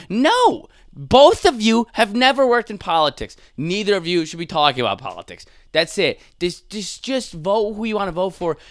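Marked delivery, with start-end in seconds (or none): 0.1-5.4 high, loud outburst of objection; indignant shout. Acted. Comic scolds actor and worker, indignant shout. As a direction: cut in loudly, pitched way up.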